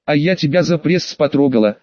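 ordinary delivery, nothing marked

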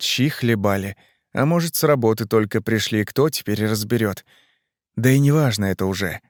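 ordinary delivery, nothing marked

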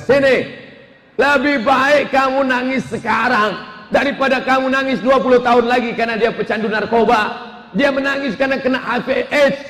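a touch of stern dad laying down the law; firm father. Acted. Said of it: "akhirnya si bapak tegas". (ayah yang tegas menasihati istrinya)

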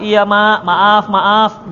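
put-on child saying sorry sweetly to mama; meek child apology.

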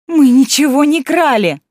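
high indignant protest. A narrator's reading. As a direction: protest loudly, offended. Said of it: "возмутилась Зеленцова".

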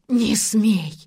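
loud angry shout, slow on the second line; old man yelling in defence of his son; furious outburst. A narrator's reading. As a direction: lunge at him with the words. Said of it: "налетел на Полуянова".

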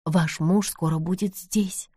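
успокаивающе. Acted. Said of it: "успокоила её Нэнси".

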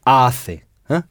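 Hace, with the stress on the first syllable HA. Shown as a demonstration. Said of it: "sur l'avant-dernière syllabe qu'on doit insister".

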